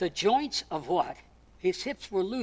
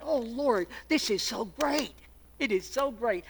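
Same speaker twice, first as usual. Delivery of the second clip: awed prayer; 3 semitones higher than usual. Retold or imitated. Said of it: "I sat and I said".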